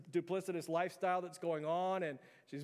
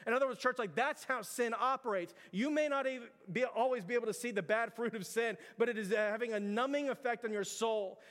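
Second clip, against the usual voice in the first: fiery preaching; 4 semitones higher than usual. Acted. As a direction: press the congregation hard, rising in urgency. Preaches at full force.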